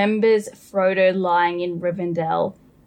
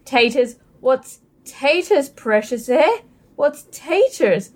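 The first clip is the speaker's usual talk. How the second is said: a touch higher, puzzled Gollum; Gollum asking; 5 semitones higher than usual. Acted. Host reading Gollum asking about taters, mildly higher puzzled voice. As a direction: lightly voice Gollum's confusion, drawing out taters. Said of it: "I'm sure you've seen the meme".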